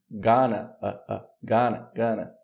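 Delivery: "gonna" with the last vowel reduced to "uh"; schwa demonstration. Shown as a demonstration. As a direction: relax the end of "gonna" into a short "uh". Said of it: "Ó o schwa". ("gonna" com schwa no final)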